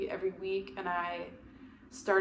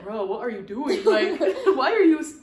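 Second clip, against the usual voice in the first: blunt sibling; 6 semitones higher, 10 dB louder than usual. Retold or imitated. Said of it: "They'd be like".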